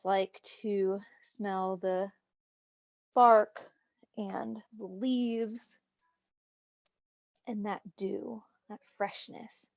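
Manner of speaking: calm, unhurried guidance with long pauses; guided meditation. Real, not acted. Meditation teacher helps class use the senses, calm guided meditation. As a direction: let each image settle before going on.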